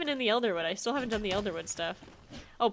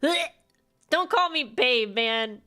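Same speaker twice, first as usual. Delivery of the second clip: slow, louder, higher, fed-up objection; annoyed; 3 semitones higher, 5 dB louder, slower than usual.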